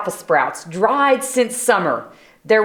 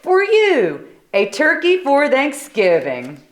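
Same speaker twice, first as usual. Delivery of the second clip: proud presentation; 6 semitones higher than usual. Acted.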